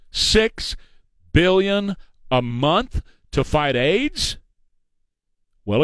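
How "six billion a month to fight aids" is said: incredulous. Real, not acted. Incredulous repeat of claim.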